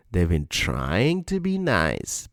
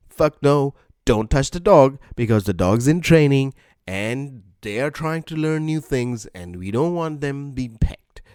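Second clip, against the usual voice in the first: mock stern refusal; 5 semitones higher, 3 dB louder than usual. Dog owner refusing the lady.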